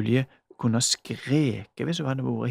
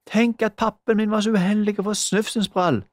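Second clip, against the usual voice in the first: nasty voice; 7 semitones higher, 5 dB louder than usual. A narrator's reading. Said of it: "sa Magda med en ekkel stemme".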